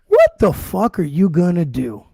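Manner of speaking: slow, drawn-out challenge; imitated slow, daring provocation; retold taunt. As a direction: act out a deliberate taunt, word by word. Retold challenge from the other guy.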